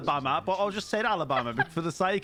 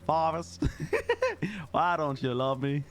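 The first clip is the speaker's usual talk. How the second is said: put-on lower, meme-style southern accent; Forrest Gump southern accent; 3 semitones lower, slower than usual. Player meming the chat with film clips, mock southern accent. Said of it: "clips from, like, Forrest Gump".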